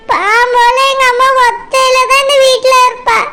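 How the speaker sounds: acted tearful lament. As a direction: plead through tears about leaving mother. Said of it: "மைனா, அழாத மைனா".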